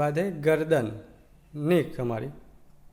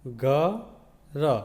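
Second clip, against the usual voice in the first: घ and र spoken as two separate, slow sounds; sounding out letters. Shown as a demonstration. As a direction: break घर into its letters. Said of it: "तो बन गया".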